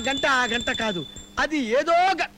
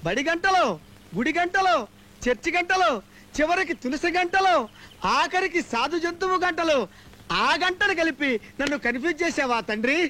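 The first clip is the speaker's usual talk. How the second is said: comic pleading prayer. Acted.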